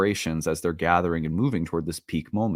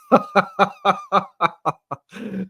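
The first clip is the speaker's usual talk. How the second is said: high loud laughter; 14 semitones higher, 5 dB louder than usual. Real, not acted. Laughing at his own teasing of the stranger, loud cackle.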